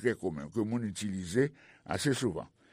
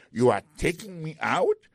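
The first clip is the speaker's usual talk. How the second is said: high, loud outraged question; can't believe he's the one thrown out; indignant disbelief; 5 semitones higher, 5 dB louder than usual. Acted. Pete to the usher, outraged disbelief.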